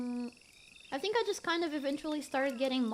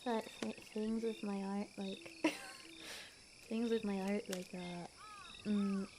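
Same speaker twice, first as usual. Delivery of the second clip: lower, softer, mock-shy take on her old self; imitating her old voice; 4 semitones lower, 7 dB quieter, slower than usual. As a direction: copy your old flat, timid delivery, a bit lower and softer. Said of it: "can you try and speak like this now?".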